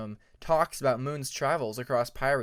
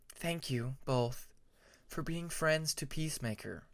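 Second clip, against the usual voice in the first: softer, heartfelt thank you; a touch of tender gratitude; 5 dB quieter than usual. Acted. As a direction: thank them gently, sincerely. Moon thanks his friends.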